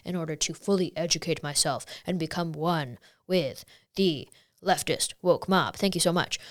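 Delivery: low, soft, sing-song mock confession; mocking forced apology. Mocking a celebrity's scripted public apology. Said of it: "he's like".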